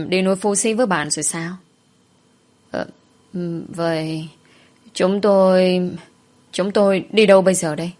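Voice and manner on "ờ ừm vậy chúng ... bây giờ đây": halting start, then pushing the words out; unsure, repeating and building in volume; flustered hesitation. Acted. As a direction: stammer for what to do next. Flustered, stumbling over where to go.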